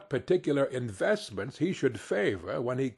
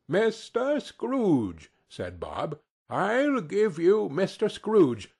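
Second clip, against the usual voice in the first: higher, slow, proud toast; cheerful toast; 5 semitones higher, slower than usual. Acted. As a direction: raise a glass to the master. Bob proposes a toast.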